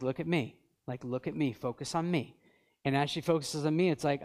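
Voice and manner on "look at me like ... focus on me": softer, gentle "look at me"; steady her with a soft, low voice; calming a scared child. Retold or imitated. Father gently calms his frightened daughter, soft and steady.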